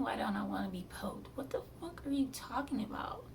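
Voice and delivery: whispered disbelief; incredulous whisper. Retold or imitated. To the nurse who asks why, whispered disbelief. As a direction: hiss the retort in disbelief.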